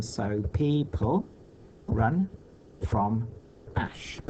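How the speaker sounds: people run from ash, each word set apart by pauses; slow syllable count, a beat per word. Shown as a demonstration. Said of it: "Let's count".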